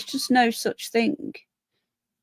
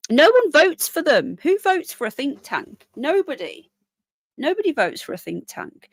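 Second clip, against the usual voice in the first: indignant; 5 semitones higher than usual. Real, not acted. Indignant rant about think tanks.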